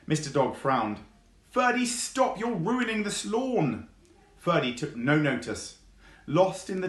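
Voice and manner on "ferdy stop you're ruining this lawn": mild scolding. Acted. Dog scolds fox.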